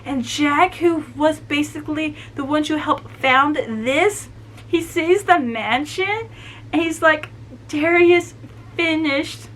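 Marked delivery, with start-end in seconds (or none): 4.7-9.5 raised, halting, emotional voice; getting emotional. Real, not acted. Fan retelling Jack seeing the mansion, emotional. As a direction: hold back feeling while retelling. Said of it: "I'm getting emotional right now".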